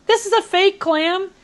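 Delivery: high, slow, incredulous question; retelling his shock at being fooled, pitch jumping up; shocked disbelief. Retold or imitated. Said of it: "And I was like".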